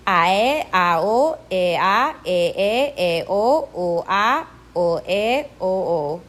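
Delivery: Ae, ao, ea, ee, eo, oa, oe, oo gliding between two pure vowels; gliding two-syllable vowels. Shown as a demonstration. Teacher drilling vowel pairs, each gliding into two syllables. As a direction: slide from the first vowel to the second in Ae, ao, ea, keeping two syllables. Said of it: "they glide from one sound to".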